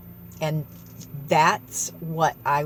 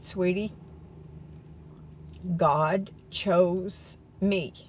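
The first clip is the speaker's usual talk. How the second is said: earnest plea. Retold or imitated. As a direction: plead with her gently but urgently. Retold tearful plea to woman.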